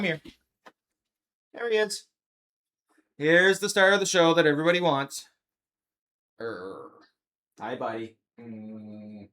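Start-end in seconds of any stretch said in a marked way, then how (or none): 6.4-9.3 low, soft hello to the dog; quiet tender hello; soft pet greeting. Real, not acted. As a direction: murmur gently to the pet.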